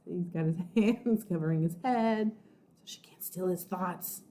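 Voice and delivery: hushed unvoiced aside; whisper. Real, not acted. Teacher whispers to the class about Eugene, hushed. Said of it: "whispered aside to the class".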